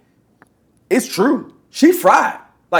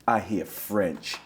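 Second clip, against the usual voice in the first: slow, lower, mocking voice of the woman; mock dumb answer; 11 semitones lower, 12 dB quieter, much slower than usual. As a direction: drag it out like you're mocking her. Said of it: "mocking the woman's answer".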